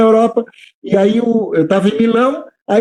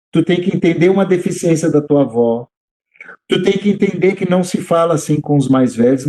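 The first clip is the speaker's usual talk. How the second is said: put-on lower-pitched, measured godfather talking to a child; balanced, calm explaining; 4 semitones lower than usual. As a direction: explain the limit firmly but evenly, voice brought down. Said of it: "de uma forma mais equilibrada, eu explico pra ele". (explicação calma e equilibrada, em tom mais grave)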